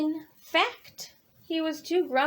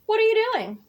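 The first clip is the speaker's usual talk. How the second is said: higher, louder eager rabbit; perky rabbit; 6 semitones higher, 6 dB louder, much faster than usual. Acted. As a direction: greet Bird like a bouncy rabbit. Rabbit asks Bird.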